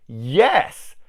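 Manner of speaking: high, loud triumphant yes; punchy shout of vindication; mock cheer. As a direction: cheer it like sweet revenge. Acting viewer cheering the revenge.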